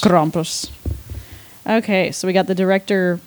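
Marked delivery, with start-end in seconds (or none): 0.0-0.7 Russian accent. Shown as a demonstration. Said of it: "like, a Russian accent".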